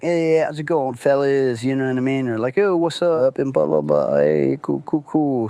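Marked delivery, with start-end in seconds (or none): 0.0-1.6 higher, cheery breezy greeting; happy-go-lucky. Retold or imitated. Walking into the bar, a cheery happy-go-lucky greeting. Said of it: "Mister Happy-Go-Lucky". 2.6-5.5 happy-go-lucky. Retold or imitated. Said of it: "Mister Happy-Go-Lucky".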